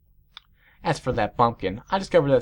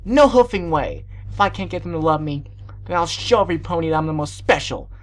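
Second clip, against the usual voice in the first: loud, high, defiant outburst; screamed resolve; 5 semitones higher, 5 dB louder than usual. A narrator's reading. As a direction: cry out your furious vow. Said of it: "I screamed".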